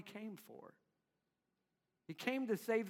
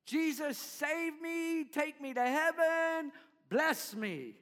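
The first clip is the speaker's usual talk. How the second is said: higher, slow pleading prayer; self-serving prayer; 6 semitones higher, slower than usual. Retold or imitated. Believer asking Jesus for heaven on their own terms, raised. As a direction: beg like someone wanting only blessings.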